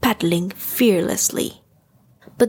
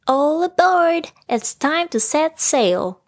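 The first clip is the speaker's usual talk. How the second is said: excited, higher call from little Roo; Roo cries out; 7 semitones higher than usual. A narrator's reading. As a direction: call everyone aboard, thrilled. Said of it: "cried Roo".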